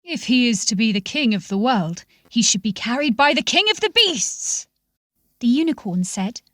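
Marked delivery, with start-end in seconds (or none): 0.0-4.7 the king of beasts claiming his right, with a hint of swagger; lion. Lion making his case to the angel, lightly proud lion voice. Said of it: "The lion spoke first".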